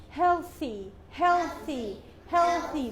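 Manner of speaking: "healthy" with a voiceless TH in the middle; soft TH. Shown as a demonstration. Teacher drilling the soft TH word, careful "healthy". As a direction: say "healthy" carefully, TH without voicing. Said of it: "soft T H".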